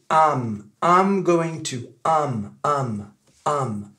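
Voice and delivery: "am" for I'm, the glide flattened away; repeated drilled "am" as in "am going to"; reduced I'm. Shown as a demonstration. Teacher drilling the subtle reduction, said as am. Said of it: "il devient".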